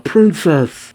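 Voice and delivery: high, loud cry for someone; calling out. A narrator's reading. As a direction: call out urgently across a distance. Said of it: "calls out".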